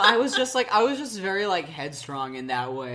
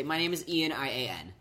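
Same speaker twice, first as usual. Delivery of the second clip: careful spelling for a barista; spelling out name; 4 semitones lower, 5 dB quieter than usual. Retold or imitated. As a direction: spell your name out letter by letter. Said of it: "if I don't say".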